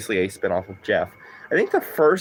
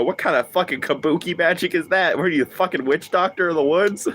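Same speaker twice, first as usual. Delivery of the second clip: deadpan disbelief; 6 semitones higher than usual. Retold or imitated. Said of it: "straight faced and go".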